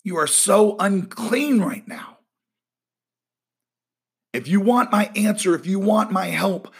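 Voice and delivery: the preacher lets God speak, rising and urgent; voicing God. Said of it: "And God is saying".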